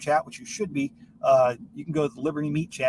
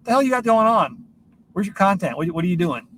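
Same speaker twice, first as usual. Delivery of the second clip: higher, louder mock demand for content; imitating listener's nagging; 5 semitones higher, 4 dB louder than usual. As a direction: call out a teasing imitation of a pushy fan. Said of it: "she's just out of nowhere".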